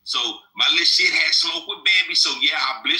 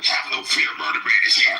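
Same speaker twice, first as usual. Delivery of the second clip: low breathy villain announcement; evil villain voice; 14 semitones lower than usual. Acted. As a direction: boom it out like a cartoon villain. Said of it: "he might put a little evil villain voice".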